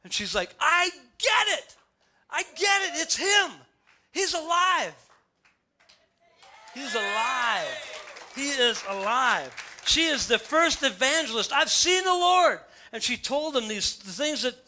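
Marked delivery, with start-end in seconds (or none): 0.6-5.0 Mary recognizing the risen Jesus; excited recognition. Acted. Mary's joyous recognition acted. 6.7-9.5 awed. Acted. Slow awed repetition. 11.5-12.6 high, loud, slow announcement; Mary telling the disciples she saw the Lord; joyful proclamation. Acted. Mary's proclamation reprised.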